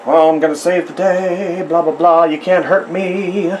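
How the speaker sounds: mock-heroic big brute voice; big heroic character. Artist voicing a big cartoon character, mock-heroic boast. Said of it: "you've got this big character".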